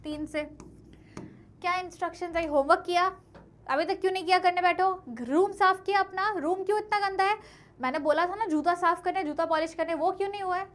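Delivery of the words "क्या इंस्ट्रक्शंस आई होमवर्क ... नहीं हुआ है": louder and higher, a nagging parent firing off questions; scolding parent. Acted. Teacher voicing Amanda's parents scolding her over chores, louder nagging. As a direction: scold the child like a fed-up mother checking every chore.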